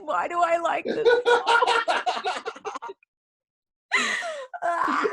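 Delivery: high, laughing embarrassed question. Real, not acted. Host laughing at her own guilty pleasure. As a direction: laugh at yourself.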